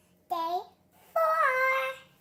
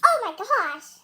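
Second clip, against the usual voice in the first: louder, startled oh my gosh; loud surprised exclaim; 3 semitones higher, 12 dB louder, much slower than usual. Real, not acted. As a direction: react like the taste shocks you. First spoonful of the popsicle.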